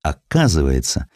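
normal talking voice

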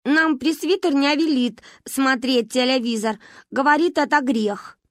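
put-on slow, prim high child's voice; prim little girl. Varya explains what the presbyter forbids, primly. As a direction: recite the rule primly.

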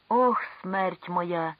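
slow, drawn-out groan of pain; moaning. Acted. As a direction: moan it out under the weight. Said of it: "стогнав нещасний".

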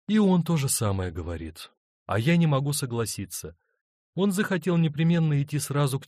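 a hint of a torn wife begging for help; pleading wife. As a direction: plead gently for a way out. Paula explains her dilemma.

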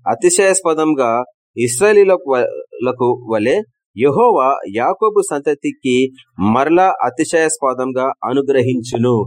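slow ringing pulpit recitation; solemn scripture reading. Acted. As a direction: read God's promise with weight, slowly.

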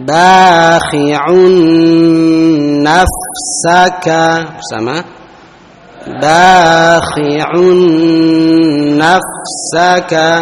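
slow chanted Quran recitation. Shown as a demonstration. Teacher leading the class in chanted recitation. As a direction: draw out each word in chanted tajwid.

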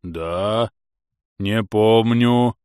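drawled out, dreamy and slow; a dim servant recalling a sweet dream; slow simple-minded servant. A narrator's reading. Scene: servant tells master his dream, slow and dreamy. Nafanya's voice.

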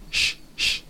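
Sh as a pure voiceless hushing sound; Sh, the English sound of -tion. Shown as a demonstration. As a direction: hiss out Sh twice, no vowel. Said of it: "esa T del tion se pronuncia".

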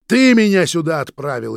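loud snapped retort; barking back. A narrator's reading. Vitya barking back at Roman, loud. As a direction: bark it back. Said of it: "рявкнул я в ответ".

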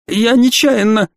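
high-pitched, drawn-out apology; flustered exclamation. A narrator's reading. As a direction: wail it like a panicked culprit. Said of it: "воскликнул Бржиза".

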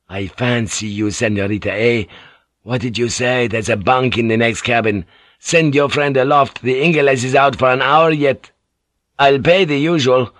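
a lightly voiced rough sailor, leering and coaxing; leering boatswain. Boatswain propositioning Mariko behind the samurai's back, leering and coaxing. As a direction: sidle up and coax her crudely.

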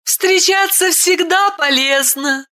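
put-on a smiling boy, lightly amused; boy answering with a smile. A narrator's reading. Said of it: "ответил с улыбкой".

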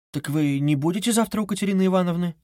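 a frightened shake in the voice; asking in fear, voice trembling. A narrator's reading. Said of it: "дрогнул голос у Сони".

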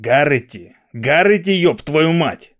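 shouting. Acted. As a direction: yell at him to get up. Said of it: "кричав Маквріс".

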